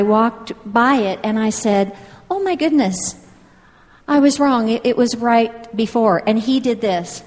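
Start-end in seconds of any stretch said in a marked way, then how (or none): 2.3-6.2 mild mock dismay at being wrong; dismayed realisation. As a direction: recount a sudden realisation, pitch lifted. Retells her own dismayed discovery.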